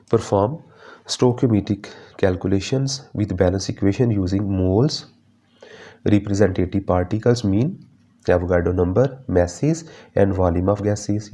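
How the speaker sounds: dictating the points very slowly; slow syllabus reading. Acted. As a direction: spell each point out for notes. Reads learning outcome aloud. (धीरे धीरे syllabus पढ़ना)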